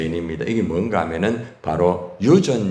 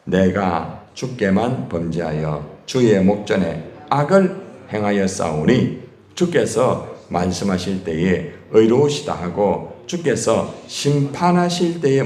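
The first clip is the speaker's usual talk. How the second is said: scripture reading; slower than usual. Acted. Reads Psalm 51 verse 4 aloud.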